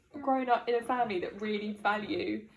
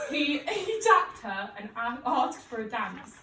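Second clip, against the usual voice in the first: northern accent. Shown as a demonstration. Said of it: "read in a northern accent".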